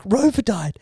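high, tearful retold reply; mock crying. Husband explaining his tears to his missus, mock crying. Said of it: "She sees me crying".

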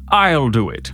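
posh English villain voice. Acted. Boss taking over from his lackey, posh accent. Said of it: "let's go from Fazia".

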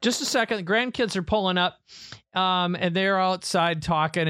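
a hint of a busy grandmother; imitating his mom.

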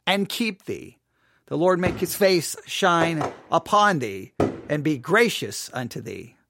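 declamatory Bible reading; measured benediction, falling away at the close; scripture reading. Acted. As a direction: proclaim the blessing, pausing between phrases. Reads scripture aloud.

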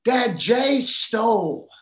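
put-on high, loud, slow little-girl voice; little girl tattling. Little girl tells her dad on her big brother, high and loud.

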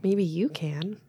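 soft, whispery nudge; hushed, teasing aside; whispered encouragement. Pretend. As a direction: murmur it temptingly under the breath.

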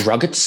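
"Rugged" offered as a question; trial pronunciation. Shown as a demonstration. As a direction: try "Rugged" for size, unsure, rising at the end. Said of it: "how the fuck are we supposed to pronounce".

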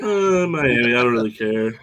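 mock apathetic Miami fan; indifferent Miami person. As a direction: sigh it out, sliding down into indifference. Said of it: "just be like a Miami person".

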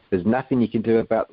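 put-on a near South African accent, meant as Australian; slipping into a South African accent. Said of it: "well, that was nearly South African".

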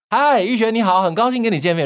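voice for a thousand people. Shown as a demonstration. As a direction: call out to a packed auditorium. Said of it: "如果是一千个人". (对一千个人，高亢响亮地招呼)

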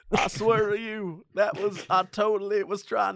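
a hint of folksy politician; Bill Clinton impression. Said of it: "sounds more like Bill Clinton".

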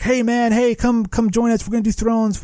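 high-pitched calling out, no real volume; retold megaphone yell. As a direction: hail a far-off ship in a mock yell. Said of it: "so they're yelling, they're yelling through their megaphone".

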